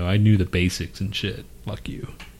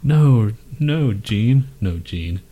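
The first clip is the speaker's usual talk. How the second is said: imitating the singer; 2 semitones higher, much slower than usual. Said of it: "It goes like this".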